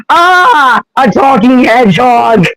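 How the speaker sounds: high-pitched spooked cry; acted yelp of fright, pitch leaping up at the start. Human persona spooked by a talking hedgehog, mock fright. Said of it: "when she possibly gets spooked".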